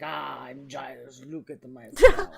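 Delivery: a hint of a hammed-up Spanish accent. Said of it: "he's gonna come out with a Spanish accent".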